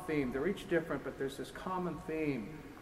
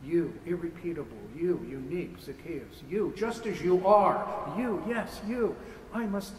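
the Lord calling out; 2 semitones higher, 5 dB louder than usual. Acted. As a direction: call him down from the tree, growing louder. The Lord calls Zacchaeus by name.

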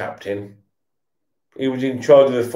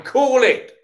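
yelling at player; 10 semitones higher than usual. Real, not acted. Shouting at players on TV.

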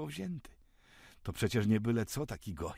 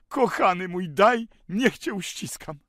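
high, loud, slow joyful embrace; joyful and tender; 9 semitones higher, 13 dB louder than usual. A narrator's reading. Benjamin hugs Sender in joy, loud tender gush. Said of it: "wypowiedział to z radością i czule".

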